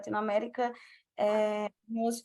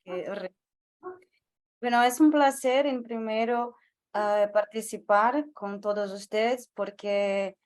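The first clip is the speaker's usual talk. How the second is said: Brazilian accent Spanish. Real, not acted. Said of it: "mi español no es la mejor cosa".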